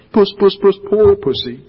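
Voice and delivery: the creatures jeering at the shaved lion, lightly voiced. A narrator's reading. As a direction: call him like a cat to mock him. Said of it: "jeering at him".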